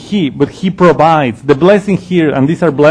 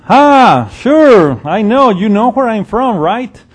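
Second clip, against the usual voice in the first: starts loud and high, then eases into mocking; Jesus answering the crowd with loud sarcasm; 3 semitones higher than usual. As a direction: throw their claim back at them sarcastically. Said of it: "he speaks loudly".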